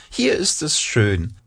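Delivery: lightly peeped mouse voice; squeaky mouse. Acted. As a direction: peep it in mild delight. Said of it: "piepste sie". (leicht piepsendes Mäuschen)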